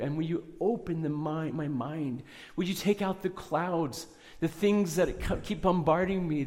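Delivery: earnest pleading prayer; retold prayer. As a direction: lift it up as a heartfelt plea. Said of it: "I've been praying and saying".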